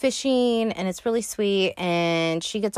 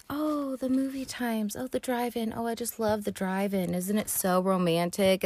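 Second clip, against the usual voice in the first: casual hinting; 3 semitones higher, 5 dB quieter than usual. Retold or imitated. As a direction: drop a hint as if it just occurred to you. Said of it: "she just casually is like".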